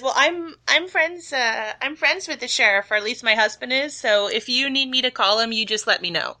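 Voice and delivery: high, chatty cashier; sweet small-town clerk; shopkeeper voice. Acted. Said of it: "and she says".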